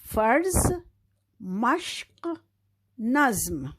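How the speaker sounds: फर्ज, मश्क, नज़्म, each with a joined final cluster; reading the word list. Shown as a demonstration. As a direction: read the list clearly. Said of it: "पूरी line पढ़ते हैं दोबारा से".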